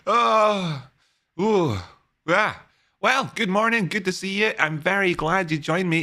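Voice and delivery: high-pitched greeting. Acted. Hammy high greeting after laugh.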